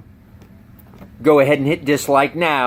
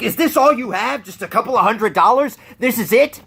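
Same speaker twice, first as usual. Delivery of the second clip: mock robber; 5 semitones higher than usual.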